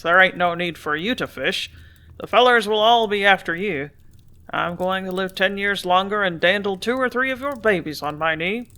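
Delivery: put-on a gruff older man confiding with a grin; gruff grain dealer. Hammerly urging Ethel to come along, gruff folksy voice.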